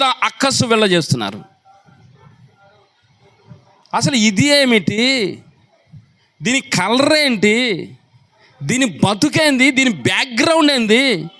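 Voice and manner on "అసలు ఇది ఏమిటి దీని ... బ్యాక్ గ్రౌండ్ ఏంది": mocking gossip about the new queen. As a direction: sneer at the poor girl. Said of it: "అని రోజు ఆమెను ఎగతాళి చేస్తున్నారు".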